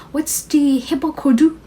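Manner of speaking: lightly imitating English-accented Korean on 해발 고도, quick; mock accented Korean. Sengkwan repeating question to confused fan, light accented Korean. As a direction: mimic a foreigner sounding out 해발 고도, quick. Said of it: "say it in an accented Korean".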